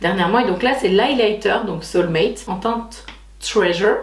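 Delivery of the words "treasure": Treasure in a careful English accent, drawn out; superbe English accent. Real, not acted. Vlogger showing off a shade name, proud English accent. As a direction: show off your English accent on Treasure, slowly. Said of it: "Vous avez vu mon superbe accent".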